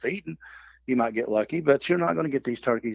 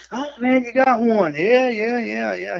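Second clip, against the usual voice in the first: high mock brother; 9 semitones higher, 3 dB louder, slower than usual. Brother voiced in retold story.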